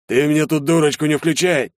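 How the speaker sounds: loud, high angry bark; barking major. A narrator's reading. Major barks at the lying recruit. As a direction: bark it so everyone flinches. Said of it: "рявкнул майор".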